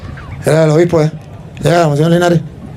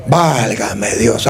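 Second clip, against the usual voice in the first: dismay; 9 semitones lower, 4 dB quieter, much slower than usual. Real, not acted. Dismayed exclamation.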